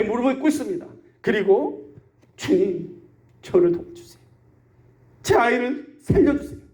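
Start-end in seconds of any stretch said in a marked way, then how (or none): 2.4-6.6 understated acted plea, broken by pauses; a restrained, imploring prayer; earnest pleading. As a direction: plead for help in halting phrases. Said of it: "너무나 간절히 기도를 하는데".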